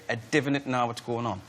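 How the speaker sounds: attempted Geordie accent; lightly done Geordie accent; learned North Shields accent. Shown as a demonstration. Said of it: "he taught me to say".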